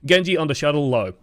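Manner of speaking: clear, concise callout; projected, no-nonsense game call; crisp shot call. Shown as a demonstration. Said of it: "his calls are crisp, they're clear, they're loud, they're concise".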